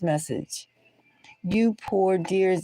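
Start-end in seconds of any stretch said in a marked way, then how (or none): 1.4-2.6 mock pitying queen. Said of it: "the Queen of Pentacles".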